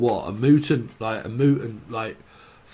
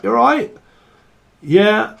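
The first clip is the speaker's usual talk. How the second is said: high chirpy exchange; 9 semitones higher, 7 dB louder than usual. Retold or imitated. Voiced exchange.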